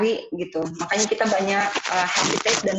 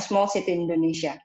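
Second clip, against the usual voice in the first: too-short answer; 3 semitones lower, faster than usual. Shown as a demonstration. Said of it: "No, not like that".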